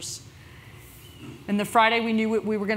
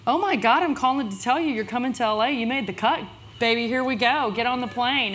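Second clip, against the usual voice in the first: excited producer; 3 semitones higher, 3 dB louder than usual. Retold or imitated. Producer announces they made it.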